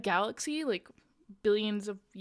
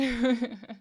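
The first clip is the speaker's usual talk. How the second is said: short laugh at yourself; brief, real chuckle; self-conscious laugh; 4 dB louder than usual. Real, not acted. Laughs at seeming stupid.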